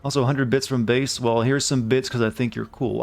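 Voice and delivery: ordinary talk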